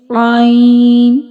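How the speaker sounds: "ain" made in the middle of the throat, held long; middle-throat sound. Shown as a demonstration. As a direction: draw out "ain" from mid-throat. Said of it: "pronounced from middle part of throat".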